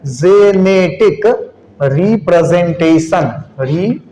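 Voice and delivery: slow, syllable by syllable as if writing; slow dictation. Real, not acted. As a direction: draw each word out for note-takers. Teacher dictating while writing. (धीरे-धीरे लिखवाते हुए)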